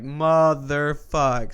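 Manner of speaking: drawn-out, slow swearing; exasperated curse. Retold or imitated. Retelling his reaction to the bus taking the long way, exasperated. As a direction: stretch the curse out in dismay. Retold dismay at the detour.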